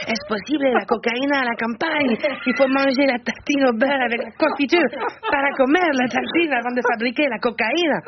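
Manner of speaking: put-on a half-hearted German trafficker accent; a hint of a German accent on a drug dealer. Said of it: "si j'imite un trafiquant de cocaïne avec l'accent allemand".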